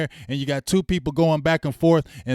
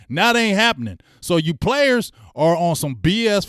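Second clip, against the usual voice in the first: angry rant; 4 semitones higher, 4 dB louder than usual. Real, not acted. Ranting at the team and coaches.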